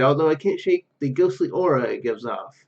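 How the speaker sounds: ordinary talk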